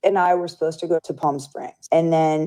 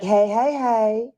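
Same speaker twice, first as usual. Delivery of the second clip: melodic, higher imitated hey; sing-song greeting; 5 semitones higher, much slower than usual. Friend's usual greeting, imitated sing-song. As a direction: lilt it up like a cheerful friend. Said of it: "her voice had a melody".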